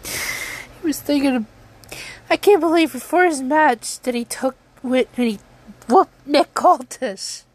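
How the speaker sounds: crying through the words; tearful, voice breaking; blubbering. Real, not acted. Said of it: "I'm sorry I'm crying about this".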